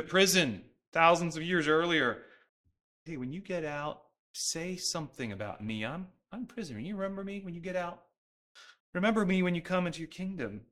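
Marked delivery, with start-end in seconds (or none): 3.0-10.6 mildly pleading, soft-voiced request; humble supplication. Prisoner asking to be remembered on release, humble plea. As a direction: ask softly and humbly, not demanding. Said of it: "It's a posture of humility".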